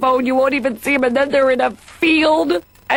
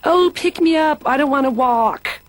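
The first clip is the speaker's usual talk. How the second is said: put-on passive-aggressive baby; 4 semitones higher than usual. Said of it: "passive-aggressive".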